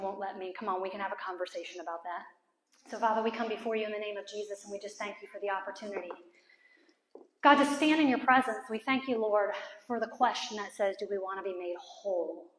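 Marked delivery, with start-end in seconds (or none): 2.9-12.5 prayer. Real, not acted. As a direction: lead the room gently in prayer. Leads a closing prayer.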